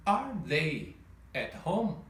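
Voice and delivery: slow, rising question tune; slow careful question melody; question intonation. Shown as a demonstration. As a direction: ask it as a real question, slowly. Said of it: "Gostaria de salientar a entonação de pergunta".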